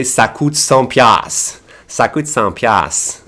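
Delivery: slow demo, "piastres" said like "pyass"; "piastres" as one syllable, "pyass"; Canadian "piastres". Retold or imitated. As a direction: draw out the phrase, dropping TR from "piastres". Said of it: "So it sounds like pièce".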